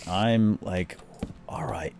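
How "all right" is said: high, slow, stern reprimand; retold scolding. Dad confronting the kids about the rock: mock angry scolding. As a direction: demand to know who threw it. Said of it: "so I'm all freaking out".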